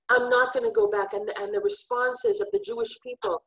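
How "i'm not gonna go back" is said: higher, louder, firm refusal; defiant reply. Acted. The beloved refusing the nations, high and defiant. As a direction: stand your ground. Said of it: "And she says".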